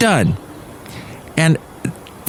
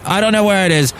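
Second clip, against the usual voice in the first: put-on a first, lightly tried northern English accent; half-hearted northern English accent, slightly higher; northern accent attempt; 6 semitones higher, faster than usual. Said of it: "I can't do a northern accent".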